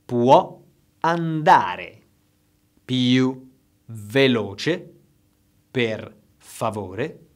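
slow second model; model for repeating. Shown as a demonstration. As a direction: let them echo each word. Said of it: "Please repeat after me".

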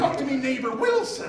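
hammed-up pirate brogue; Irish Tim Allen. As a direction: growl it out like a comic pirate. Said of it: "He's an Irish pirate".

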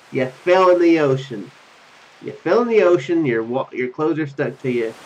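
ordinary delivery

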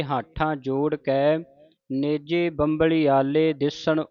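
slow, measured chanting; scripture recitation. Shown as a demonstration. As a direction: recite slowly with pauses.

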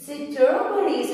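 strawberries drawn out slowly syllable by syllable; slow, deliberate teacher read; slow syllable demo. Shown as a demonstration. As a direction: stretch strawberries out for dictation. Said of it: "تعالوا نكتب strawberries".

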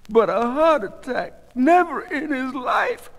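high, slow, loud protest; disbelieving distress. A narrator's reading. Goldie hearing of her husband's heart attack, disbelieving.

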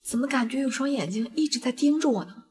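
soft, wary murmur to herself; uneasy murmur. Acted. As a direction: murmur it, feeling watched.

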